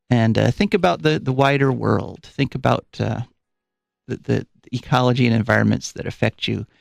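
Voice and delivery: slightly winded after running; out of breath. Real, not acted. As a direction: talk while still catching breath. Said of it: "you might notice I'm a little bit out of breath".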